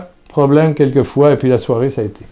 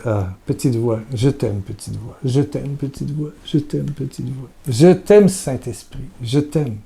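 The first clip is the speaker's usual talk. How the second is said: soft tender prayer; 6 dB quieter than usual. Retold or imitated. Retold prayer in the car.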